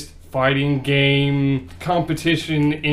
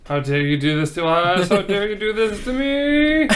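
melodramatic wail, rising as it goes; mock outrage; 2 semitones higher than usual. Friend teased about a shiny Pokemon, mock outrage. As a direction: build a hammed-up protest, drawing out the last word.

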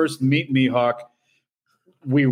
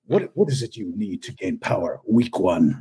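menacing swordsman; 8 semitones lower than usual. Retold or imitated. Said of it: "He's like, he's like".

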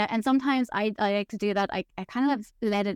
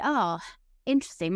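mock curious. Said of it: "My teacher always kinda say".

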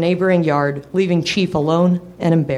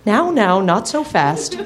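laughing; 4 semitones higher, slower than usual. Acted. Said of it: "she laughed".

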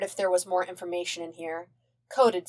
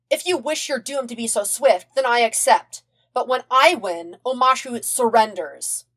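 haughty royal; 5 semitones higher, 4 dB louder than usual. Acted. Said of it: "channel his inner Azula".

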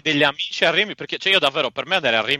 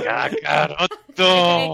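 drawn-out anime shout; much slower than usual. Pretend. Shouting anime name as a bit.

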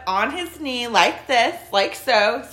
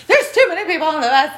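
mock angry rant; 7 semitones higher, 4 dB louder, much faster than usual. Angry man quoted on bus.

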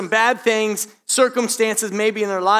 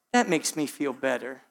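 sweetly; 6 semitones lower, 7 dB quieter than usual. Retold or imitated. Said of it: "looked at me real sweet".

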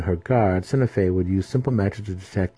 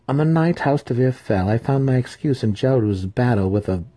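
smug assassin; 5 semitones higher, 3 dB louder than usual. Acted. Massage explains.

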